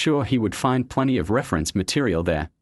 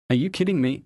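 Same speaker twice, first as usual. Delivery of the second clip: mild scream; 5 semitones higher than usual. Acted. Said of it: "his sister screamed to cover the ruckus".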